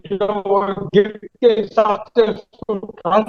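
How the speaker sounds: muffled, as if through a hand. Real, not acted. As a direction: talk with a hand over your mouth. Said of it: "you're sounding muffled".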